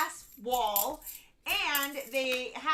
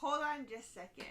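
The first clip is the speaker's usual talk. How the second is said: softer, quick phone voice; hushed phone-answering voice; 3 semitones higher, 5 dB quieter, faster than usual. Shown as a demonstration. Answering the phone somewhere public, hushed busy voice. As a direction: keep it discreet and hurried. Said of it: "You use this voice".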